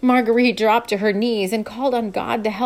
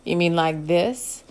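cowboy voice; 4 semitones lower, slower than usual. Acted. Luke low, slow.

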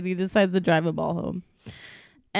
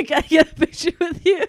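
eager fan; 4 dB louder than usual. Retold or imitated. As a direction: gush like a starstruck fan. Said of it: "fan asking for photo".

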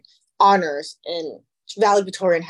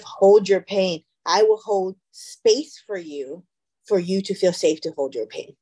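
"space" drawn out slowly in "I will hold space for you"; slow down and lean on "space"; stress on SPACE; slower than usual. Shown as a demonstration. Therapist rewording a line for a parent, slow stress on "space". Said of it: "let me correct something".

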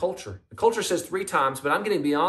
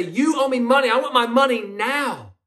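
higher, louder angry demand while strangling him; angry yell; 6 semitones higher, 3 dB louder than usual. Acted. Servant yells at his choking friend, furious and loud. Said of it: "strangle him and yell at him".

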